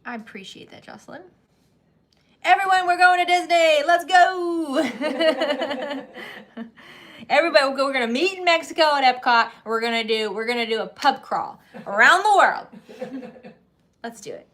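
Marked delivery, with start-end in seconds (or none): 2.4-8.4 higher, louder, calling out with a laugh; rally the whole crowd; real shout to the viewers about a Disney trip; excited shout. Real, not acted.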